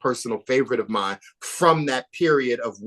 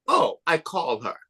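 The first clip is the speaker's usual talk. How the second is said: higher, badly imitated grand accent; Iman; 5 semitones higher than usual. Filmmaker mimics the connected queen answering her wish, mock accent. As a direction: put on a bad accent, breezily well-connected. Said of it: "That's my bad Iman, like, accent".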